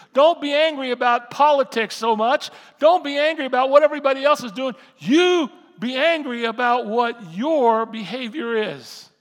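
loud, high preacher's exhortation building in force; full-force preaching. Acted. Preacher urging people to judge their own behavior, shouted exhortation.

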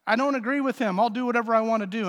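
Adam brushing off God, half-voiced defiance; defiant Adam. Adam defying God, with defiance lightly acted. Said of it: "He made a willful decision and said".

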